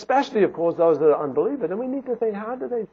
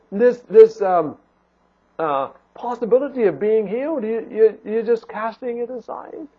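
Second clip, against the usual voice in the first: higher-pitched, heartfelt appeal; concerned pleading; 3 semitones higher than usual. Acted. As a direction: reason with him out of genuine concern. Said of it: "out of concern".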